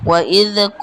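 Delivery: long-held vowel on "ক"; measured elongation. Shown as a demonstration. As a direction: stretch "ক" at the end by a measured amount. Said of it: "পরিমাণ মতো টান দিতে হবে".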